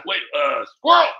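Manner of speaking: high, distracted mock politician; Joe Biden. Shown as a demonstration. Comic playing an easily distracted Biden, high put-on voice. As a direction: blurt it high, as if losing the thread. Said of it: "when I do Joe Biden".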